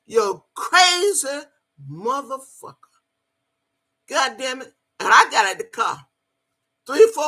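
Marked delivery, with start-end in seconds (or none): 0.0-2.8 angry outburst. Retold or imitated. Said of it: "He said".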